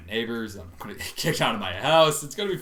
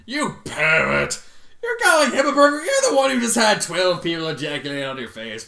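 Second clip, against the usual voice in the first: loud shocked outburst at the text; scandalised reader shouting at the story; outraged yell; 6 semitones higher, 8 dB louder than usual. Real, not acted. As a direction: yell it in disbelief. Reader outraged at character line.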